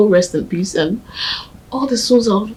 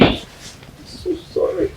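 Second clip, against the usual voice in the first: a slow, breathy whispered sorry; 10 semitones higher, 5 dB quieter, much slower than usual. Acted. Ogechi consoling her grieving friend, slow whisper. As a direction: whisper it slowly, full of pity.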